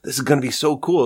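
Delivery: high, hushed giddy amazement; giddy disbelief. Retold or imitated. Friends waiting at stage door, giddy and hushed. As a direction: marvel that you're the only fans.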